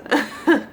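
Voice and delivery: a quick laugh through tears; teary laugh. Real, not acted. Mom thanking viewers for listening, teary laugh. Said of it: "sorry for the tears".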